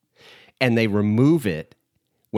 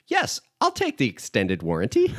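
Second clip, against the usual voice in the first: Homer; 3 semitones higher than usual. Retold or imitated. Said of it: "and Homer's like".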